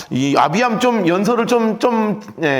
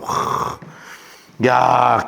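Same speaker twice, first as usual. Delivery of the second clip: ordinary delivery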